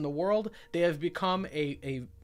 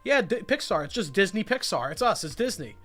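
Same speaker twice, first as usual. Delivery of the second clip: lightly voiced smug company, pitched up and a bit louder; mocking Disney voice; 3 semitones higher, 3 dB louder than usual. Fan mocking Disney taking credit for Pixar, smug mock voice. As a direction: mimic Disney bragging, chirpy and self-satisfied. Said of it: "pretending like it was you all along".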